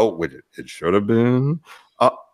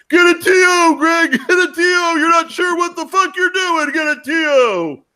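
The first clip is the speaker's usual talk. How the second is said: high panicked shouting; frantic coach yelling; 4 dB louder than usual. Retold or imitated. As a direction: yell it like a frantic coach on the sideline. Coach yelling timeout, mocked.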